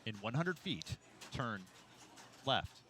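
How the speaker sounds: flat monotone but demanding; deadpan navigation voice, firm and bossy; gps voice. Shown as a demonstration. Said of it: "flat, monotone, but still somehow sound demanding".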